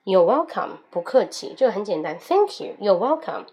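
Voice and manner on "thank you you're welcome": other speaker's line. Acted. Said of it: "mini dialogue, other role".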